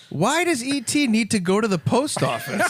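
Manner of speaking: high-pitched, through real laughter; laughing. Real, not acted. Co-host riffing on the joke, laughing hard. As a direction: barely get the question out for laughing.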